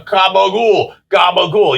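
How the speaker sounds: gabagool, a New York Italian take on capicola, said slowly. Retold or imitated. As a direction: say gabagool like a Jersey Italian, drawn out. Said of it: "say, say".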